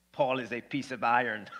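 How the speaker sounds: playful Russian-accented impression. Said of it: "That's my Russian accent".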